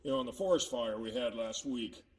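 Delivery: gloomy and subdued; sad. Acted. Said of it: "Makes me kinda sad".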